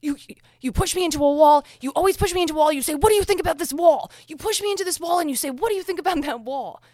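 high, loud, mocking whine of a tearful accuser; Amber Heard impression. Vlogger mocking Amber Heard's testimony about the wall, shrill whine. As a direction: ham up a shrill, exaggerated complaint. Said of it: "doing an Amber Heard impression".

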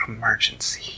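whispered cat voice; hushed feline voice; purring cat. Acted. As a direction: murmur it through a purr. Theodore the cat breaks the news.

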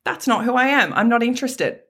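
high, laughing, breezy brush-off; giggly no-thank-you to the inner critic; laughing rejection. Pretend. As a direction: laugh the thought away and turn it down. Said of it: "you can go".

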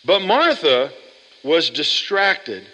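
slow, deliberate distracted; teaching a key word; stressing distracted. Shown as a demonstration. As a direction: lean on the word distracted, slowly. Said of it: "Can you say the word distracted?".

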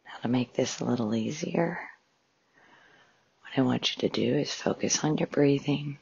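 measured meditation guide with long pauses; guided meditation. Acted. Host guiding listeners through a breathing exercise, calm meditation voice. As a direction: calmly guide listeners into relaxation, phrase by phrase.

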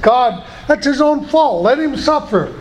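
laughing confession of a grudge to God; mock grumbling. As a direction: play up your petty complaint for laughs. Pastor mock-quotes himself to God.

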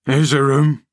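put-on grumbling old servant Joseph. A narrator's reading. Old servant scolding the boy, grumbling rustic voice. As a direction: nag the boy about his lumpy porridge.

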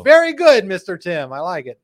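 hammed-up Brazilian-accented cheer; mock Brazilian accent, beaming. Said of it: "I don't know why that's his accent".

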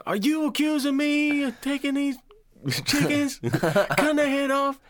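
very high, laughing mock outrage; quoting the chicken scene. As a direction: squeal the accusation in a high mock voice. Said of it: "the chicken fucker scene".

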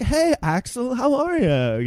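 put-on high, lilting girl voice; imitated white chick. Gallery girl greeting her high school friend, imitated white chick. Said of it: "this white chick is just like".

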